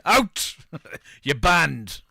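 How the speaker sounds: barked order to leave; shouting. Pretend. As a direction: yell it like a furious landlord. Landlord throwing people out.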